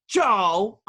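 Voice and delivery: scolding name call. Retold or imitated. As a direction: call his name like a shocked nan. Nan scolding grandson over tattoo.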